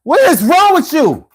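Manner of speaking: imitating girlfriend. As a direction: squeal her fed-up complaint high. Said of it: "she'd be like".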